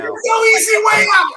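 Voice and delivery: high, loud rallying shout; pumped-up shout. Real, not acted. Host psyching himself up, pumped-up shout. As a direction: push the line like a coach roaring.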